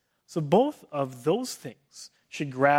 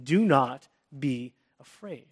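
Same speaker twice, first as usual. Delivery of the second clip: firm command; slower than usual. Shown as a demonstration. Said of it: "he gives us a very strong command".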